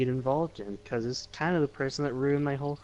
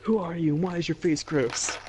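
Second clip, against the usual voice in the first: pretend talking to girl; 7 semitones higher than usual. Player addressing the creepy girl.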